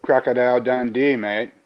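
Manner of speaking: mock Australian accent, tailing off. Trying accents for friends, mock Australian accent. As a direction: put on a hammy Australian accent. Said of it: "That's Australian".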